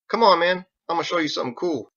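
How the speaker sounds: put-on a kid eager to show off. Ditch eager.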